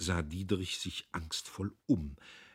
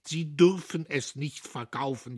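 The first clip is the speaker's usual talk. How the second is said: high, loud lament; loud wailing old man; wailing plea; 8 semitones higher, 5 dB louder than usual. A narrator's reading. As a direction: wail it in despair. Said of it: "jammerte Södbier".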